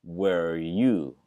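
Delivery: "where are you" run together, the R sounds blurred into one; linked where are you. Shown as a demonstration. Teacher showing how "where are you" runs together. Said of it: "어로 그냥 다 뭉쳐버리죠".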